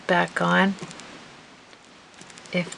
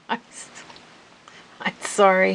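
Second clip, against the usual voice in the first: laughing. Real, not acted. Laughing at own choke.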